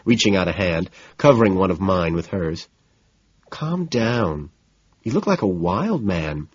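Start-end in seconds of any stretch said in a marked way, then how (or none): 3.5-6.5 soothing, softly spoken. Acted. Woman telling her agitated date to calm down, soothingly. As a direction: gently talk someone down. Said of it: "she says soothingly".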